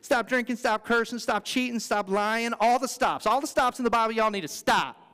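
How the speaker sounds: imitated Southern lady accent, scolding. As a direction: rattle off orders with a light Southern twang. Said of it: "the Southern lady accent".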